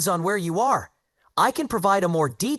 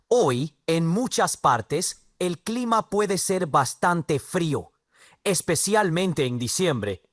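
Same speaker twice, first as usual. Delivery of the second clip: put-on Spanish spoken in a strong English accent; English-accented Spanish about the cold. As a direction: read Spanish like an English speaker would. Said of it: "a strong English accent".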